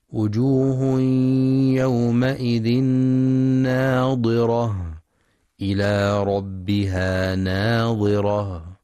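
slow, drawn-out recitation; Quranic recitation. Shown as a demonstration. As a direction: recite with long held vowels. Chanted verse.

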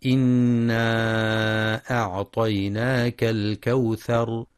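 slow recitation with a nasal hum on إنا; Quran recitation. Shown as a demonstration. Teacher reciting Surat al-Kawthar, slow tajweed chant. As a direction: chant the verse slowly, humming the nun.

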